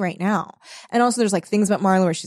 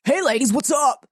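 mock bro greeting; 5 semitones higher than usual. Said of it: "they're like".

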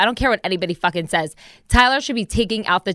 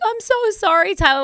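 put-on baby-talk apology; 10 semitones higher than usual. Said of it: "we were like".

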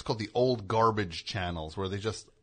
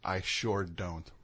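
echoing Southern line; 4 semitones lower, 6 dB quieter, slower than usual. Retold or imitated. Co-host echoes the slow Southern line.

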